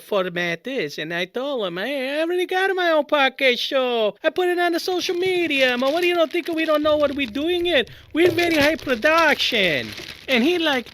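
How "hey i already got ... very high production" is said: higher-pitched, defensive protest; indignant rebuff. Retold or imitated. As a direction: bristle with wounded pride. Indignantly rebuffing caller's podcast offer.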